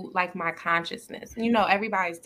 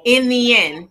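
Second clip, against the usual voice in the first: laughs out the last words, much louder; laughing; 3 semitones higher, 11 dB louder than usual. Real, not acted. To her co-host, ending her point with a laugh. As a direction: tag the punchline with a loud laugh.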